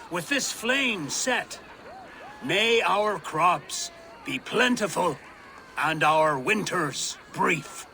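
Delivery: ceremonial proclamation. Acted. Harvest King's ritual address.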